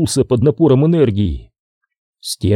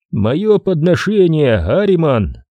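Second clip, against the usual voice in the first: distant oracle voice; 5 semitones higher, slower than usual. Acted. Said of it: "Голос оракула ... казался далёким".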